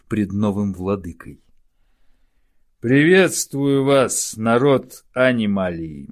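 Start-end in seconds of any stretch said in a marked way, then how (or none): 2.8-6.1 grand royal greeting. Acted. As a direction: proclaim it like a king. King greets his people. (торжественное приветствие)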